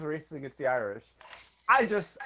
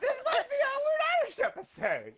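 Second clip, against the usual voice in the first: laughing. Real, not acted. Laughing at own slander.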